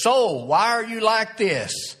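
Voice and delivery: high, loud self-rebuke; pleading with himself. Retold or imitated. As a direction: cry out to your own soul. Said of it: "he's trying to talk himself out of this".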